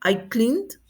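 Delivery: "cleaned" rising, with its final D released; one syllable "cleaned", ending clearly sounded; final D demo. Shown as a demonstration. Teacher explains the E D ending, "cleaned" modelled carefully. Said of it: "pero suena como D".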